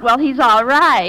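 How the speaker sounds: slow, drawn-out doubt; doubtful. Shown as a demonstration. Quiz kid grading the quizmaster, doubtful. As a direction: say it slowly as if you are not convinced. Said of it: "you could express doubt".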